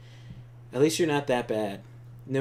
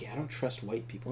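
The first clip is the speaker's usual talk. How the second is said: retold whisper; 8 dB quieter than usual.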